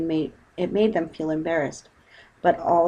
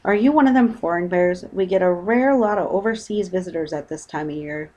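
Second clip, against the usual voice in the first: boatman's voice; 3 dB louder than usual. Acted. Boatman speaks.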